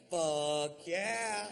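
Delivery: high, loud eager fuck yeah; pumped-up yes to a party invitation; enthusiastic yes. Shown as a demonstration. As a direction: belt it out like the best offer ever. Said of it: "Which is what you say if somebody says".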